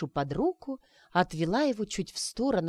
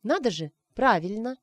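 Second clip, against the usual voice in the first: higher, startled amazement; taken aback; 4 semitones higher than usual. Acted. Arina stunned the wizard guessed right, surprised. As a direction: caught off guard by the guess. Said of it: "оторопела Арина".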